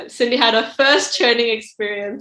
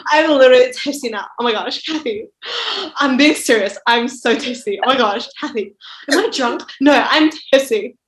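put-on giggly drunk; 3 semitones higher than usual. Imitates friend drunk at clubs.

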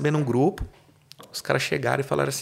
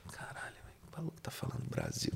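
whisper; 8 semitones lower, 19 dB quieter than usual. Retold or imitated. Muttering to himself at the chanting.

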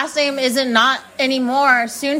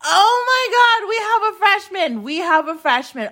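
excited shriek; 3 semitones higher than usual. Retold or imitated. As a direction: squeal the news to the room, then let it settle. Friend announces freshman to room.

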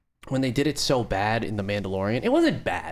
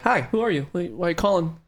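robot voice; 4 semitones higher than usual. Retold or imitated. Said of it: "my own robot voice being like".

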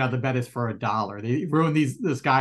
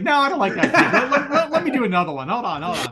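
imitating the actor; 8 semitones higher, 3 dB louder than usual. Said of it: "He's like".

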